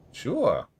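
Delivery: put-on high, muttering old seamstress, sing-song; croaky old seamstress. Player asks who she is, old seamstress answers in high mutter. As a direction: play Marta as a batty crone.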